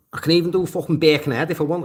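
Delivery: quick Birkenhead Scouse; Birkenhead accent. Shown as a demonstration. Boasting he can switch local accents, Birkenhead accent. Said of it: "I can do Birkenhead and I can change to Liverpool".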